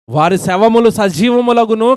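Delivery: preacher proclaiming scripture slowly; solemn scripture reading. Acted. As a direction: stretch every word of the verse out. Repeats verse phrase.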